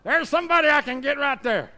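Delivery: lightly voiced sly devil; a hint of a scheming devil. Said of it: "the devil's gonna say".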